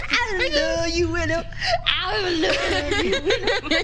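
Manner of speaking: tearful gushing. Acted. Tearful reunion hug.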